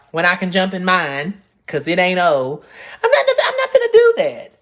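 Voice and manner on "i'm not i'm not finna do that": high, loud laughing refusal. Real, not acted. Laughing as she tells viewers she won't do it. Laughing at her own rant.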